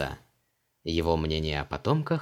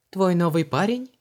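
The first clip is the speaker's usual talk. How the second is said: put-on much higher, just-woken young woman; Luise's voice; 10 semitones higher, 5 dB louder than usual. A narrator's reading. Luise asks Vanessa why she is home, high. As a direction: ask lightly, a bit surprised.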